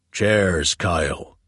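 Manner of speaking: clipped side-of-mouth command; curt order from side of mouth. Acted. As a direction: bark it out of the corner of the mouth. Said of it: "ordered from the side of his mouth".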